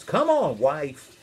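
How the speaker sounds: mildly called out; calling out. Acted. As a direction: summon family with a light holler. Noah calls his family over.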